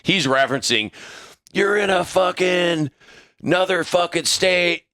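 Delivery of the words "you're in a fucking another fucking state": angry tirade. Retold or imitated. Master Chief chewing him out.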